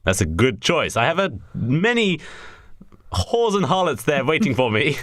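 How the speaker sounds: a hint of chummy Englishman; mock English accent. Richard Harris greets Alan Rickman on the phone, mock English accent. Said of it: "Really, it's just English".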